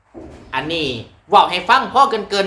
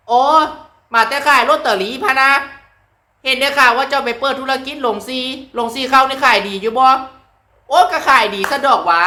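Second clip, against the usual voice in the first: higher Chaiyaphum village banter; Chaiyaphum dialect; 6 semitones higher than usual. Shown as a demonstration. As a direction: act out a chat in Chaiyaphum dialect. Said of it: "ภาษาทางชัยภูมิ อย่างเช่น".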